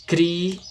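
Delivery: "criança" slowly broken as cri, an, ça; split into syllables. Shown as a demonstration. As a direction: pause after each syllable of "criança". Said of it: "três sílabas que se separam".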